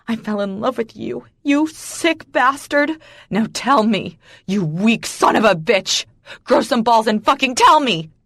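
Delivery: betrayed woman demanding the truth, loud and furious; angry confrontation. A narrator's reading. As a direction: spit the insults at him.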